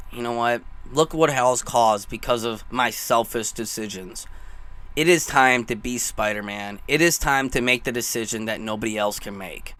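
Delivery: low, subdued hero's decision, retold; solemn resolve. Voicing Tom Holland's resolve.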